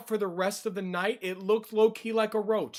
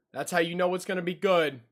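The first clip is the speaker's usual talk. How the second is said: whisper. Real, not acted. Repeats line as an aside.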